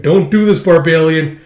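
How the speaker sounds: retold cry to stop; acted urgent plea. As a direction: plead across a fight. Retold plea during fight.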